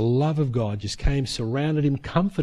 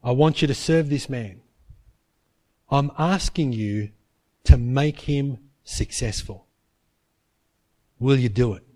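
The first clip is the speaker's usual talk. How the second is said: voice of the Spirit; 4 semitones lower than usual. Retold or imitated. Holy Spirit asking Paul to stay, low gentle voice. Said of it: "the Holy Spirit spoke to him".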